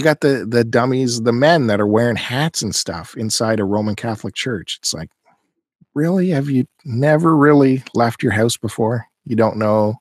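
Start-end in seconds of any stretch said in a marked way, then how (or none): 5.9-9.1 high, incredulous "really?"; mock disbelief at the rude men; can't believe it. Incredulous jab at hat wearers.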